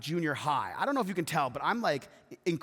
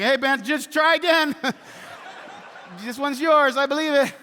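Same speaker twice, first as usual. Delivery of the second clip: mock encouragement; 7 semitones higher, 6 dB louder than usual.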